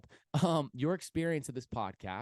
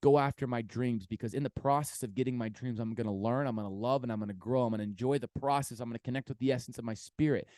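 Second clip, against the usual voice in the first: affirmation; 3 dB louder than usual. Shown as a demonstration. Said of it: "I want you to literally go".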